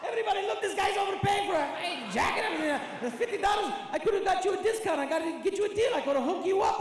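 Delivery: a brash Arab uncle loudly scolding a customer who overpaid; loud pushy haggler. Retold or imitated. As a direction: bellow at the overpayer for all to hear. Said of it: "they always do that".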